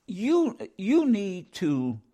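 halting restart on the first word; stuttering. Real, not acted. Speaker whose mind is ahead of the mouth, stuttering. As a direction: stumble as your thoughts race ahead. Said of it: "sounds like I'm stuttering".

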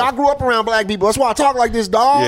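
high, put-on slangy swagger; wannabe gangster voice. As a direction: play the suburban kid bragging. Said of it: "other wiggers in the crowd".

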